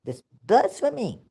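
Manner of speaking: ordinary delivery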